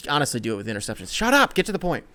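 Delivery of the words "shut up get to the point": high, loud outburst; mock self-scolding. Podcast host interrupting own tangent, mock scolding. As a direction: cut yourself off with a high, loud rebuke.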